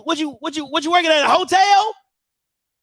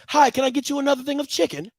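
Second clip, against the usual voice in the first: soft, fast fawning mock server; mock polite server; 5 dB quieter, faster than usual. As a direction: chirp it like an eager pledge. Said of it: "you go to Omega's".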